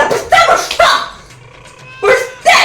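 fake language. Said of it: "ஏன் அப்படி பேசுற?".

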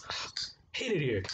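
whispered frustrated aside; whispered grumble. Real, not acted. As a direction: whisper it under your breath in defeat. Frustrated aside after failed flip.

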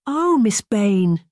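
high, drawn-out cry of dismay; exclaiming. A narrator's reading. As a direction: exclaim it slowly, pitched high. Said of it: "Nell exclaimed".

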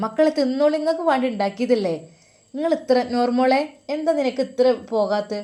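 mother pressing food, voice lifted high; a hint of a coaxing mother; doting mother. Mother urging them to eat.

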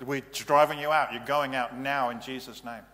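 loud, forceful command to the demon; commanding shout. Shown as a demonstration. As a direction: drive it out with a loud rebuke. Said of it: "So anybody that said".

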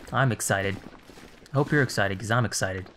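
deadpan fake enthusiasm; sarcastic excitement. Real, not acted. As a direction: claim excitement with zero energy. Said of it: "Just listen to how excited I am".

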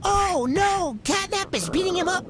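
high-pitched, dismayed outburst; alarmed cry. Real, not acted. Player reacting to Catnap's attack, alarmed cry.

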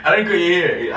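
laughing through the confession; laughing reveal. Real, not acted. Boyfriend reveals prank to girlfriend, laughing. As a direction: giggle out the truth.

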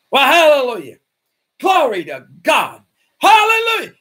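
loud, high bursts of hallelujah, imitating the Marine; joyful shouting praise. The Marine rejoicing in the parking lot, jubilant shouts. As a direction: shout it out like a man leaping for joy.

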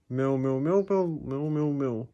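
soft, low meowing cat; cat meows. Acted. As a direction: meow like a cat, softly. Cat meowing, voiced quietly.

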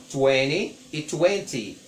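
first "twenty" with a flapped, dropped T, then "twenty" with a crisp T; american vs british twenty. Shown as a demonstration. Teacher contrasts US and UK "twenty" for class. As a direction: model both "twenty" variants slowly. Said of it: "Twenty é uma pronúncia, é, americana e twenty é uma pronúncia britânica".

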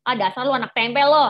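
mengejek. Retold or imitated. Bully mocking classmate.

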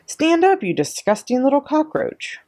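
high, indignant scolding; acted furious headmistress, pitched high; barked order. A narrator's reading. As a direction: bark it out in a high angry voice. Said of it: "she barked".

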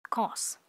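teacher shows the light S; light final S. Shown as a demonstration. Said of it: "có âm sờ nhẹ ở cuối".

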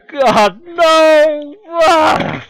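high loud despairing cry; anguished yell. Acted. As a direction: wail in dismay. Character dreads interview, cries out.

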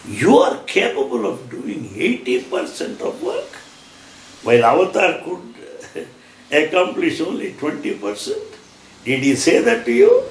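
scornful questions swooping up at the end; incredulous challenge. Real, not acted. Preacher challenging those who claim Swami's work, incredulous. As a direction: challenge them in disbelief, pitch climbing.

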